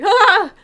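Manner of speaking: high loud laughing scream; mock scream. Startled streamer approached by a stranger, a high loud laughing scream. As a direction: shriek in fake fright. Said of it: "I'd be like".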